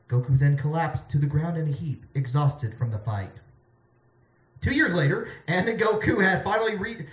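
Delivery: dramatic comic bedtime-story reading; story narration. Acted. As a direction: read it out like an epic tale. Reads bedtime story to audience.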